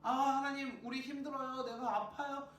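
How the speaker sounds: acted plea, pitched high; crying out. Suffering Israelites begging God for help, desperate acted cry. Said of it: "라고 하는 부르짖음을".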